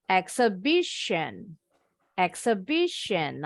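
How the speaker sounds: exhibition, slow, with BI lifted; intonation rises on stress. Shown as a demonstration. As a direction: stress exhibition slowly as "ek-se-BI-shun". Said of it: "Naik ya intonasinya".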